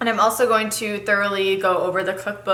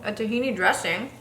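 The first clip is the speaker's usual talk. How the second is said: talking through a mouthful; chewing while talking; mouth full. Real, not acted. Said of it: "I'm talking with my mouth full".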